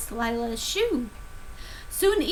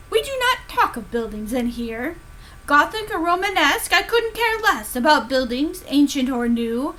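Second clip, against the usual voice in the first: stern teacher. Acted. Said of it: "she said in her lecture".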